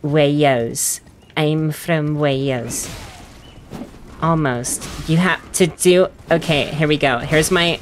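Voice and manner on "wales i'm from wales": slow, drawn-out Welsh accent; Welsh accent attempt. Shown as a demonstration. Gamer warming up to sound like Ranni, Welsh accent. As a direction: try on a rough Welsh accent. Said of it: "she's Welsh".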